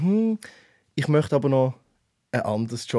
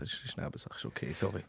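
murmured aside; 6 semitones lower, 15 dB quieter than usual. Real, not acted. Fast geflüstert, Rückzug.

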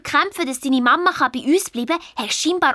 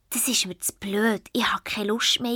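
hushed, defeated whisper; whispered giving up; 4 semitones lower, 6 dB quieter than usual. Acted. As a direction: give up under your breath. Luis giving up, quoted.

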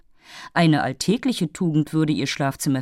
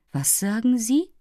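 sharp rising question, pitched up; lively; 7 semitones higher than usual. A narrator's reading. Offended fairy snaps back at the prince, lively. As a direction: bristle at the word, quick and indignant. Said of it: "versetzte die schöne Undine sehr lebhaft".

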